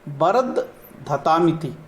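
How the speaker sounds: वर्धधामिति said very slowly as bar-d-dha-ta-miti, with दा before तामिति; corrected pronunciation. Shown as a demonstration. Teacher showing viewers the right way to say the mantra's last word, slow. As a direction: spell out वर्धधामिति syllable by syllable, adding the त. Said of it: "दा पहले आ जाएगा".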